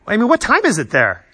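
loud, lively pretend phone greeting; pretend phone call. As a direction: answer a make-believe call, taken aback by the hour. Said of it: "let me just pretend that it rings".

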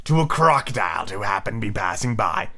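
low villain captain voice; low-pitched pirate chief; wincing Hook. Acted. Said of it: "he said, wincing".

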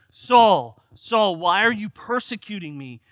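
loud, high call of a name; a voice from heaven calling out to Saul. Acted. Jesus calling down to Saul on the road, loud.

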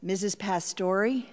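dreading question, lightly acted; understated dread. Child guessing whom mother means, mild dread. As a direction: ask it with mild dread, rising slightly. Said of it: "with dread in my voice".

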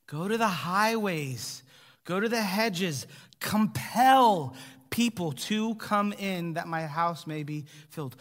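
slow, drawn-out yearning call; a gentle note of longing, unhurried. Acted. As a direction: plead slowly, reaching out to the crowd. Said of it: "You hear the longing in Jesus' voice?".

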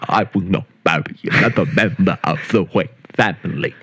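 butler voice. Pretend. Alfred impression bit.

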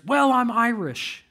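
imitated self-justifying shrug in the voice; mock defensive excuse. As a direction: offer it slowly as a hammed-up excuse. Mimicking a favorite excuse for anger.

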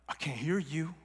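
low, hushed prompting; soft coaxing. Acted. God prodding Elijah to speak up, softly coaxing. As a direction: gently draw him out, keeping it soft.

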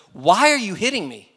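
high, loud donkey voice; indignant talking donkey. Acted. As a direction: squawk it as an affronted donkey. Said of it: "the donkey turns around and goes".

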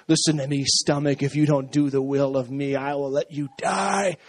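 low, mock-commanding talk to the stomach; mock stern command. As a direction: lay down the law to your belly.

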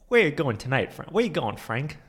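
lightly voiced Walken, pushing the question; Christopher Walken impression. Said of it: "we are doing Christopher Walken quotes".

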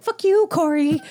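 playful fake anger; mock insult. Imagined insult acted out.

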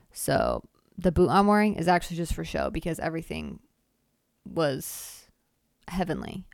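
loud, building, gleeful storytelling; excited exaggeration. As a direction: hype up a made-up victory. Exaggerated triumphant tall tale.

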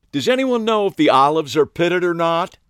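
high, loud, sing-song question; high girlish voice. A narrator's reading. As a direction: ask the room brightly. Ariana asks the room.

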